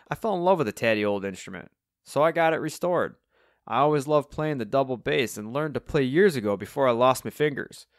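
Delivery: put-on proud old Cockney bassist; Alvin, cheery Cockney musician. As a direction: reminisce fondly in a Cockney character voice.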